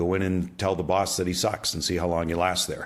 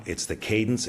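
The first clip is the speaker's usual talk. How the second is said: ordinary talk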